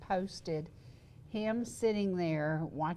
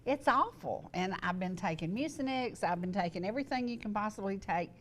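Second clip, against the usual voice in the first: squeaky, wheezing breath; wheezy voice. Real, not acted. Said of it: "sound like a cat that just ate a squeaky toy".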